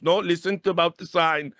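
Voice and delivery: lightly put-on stilted interruption; imitating ESL producer. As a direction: insist like a pedantic official. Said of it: "He goes".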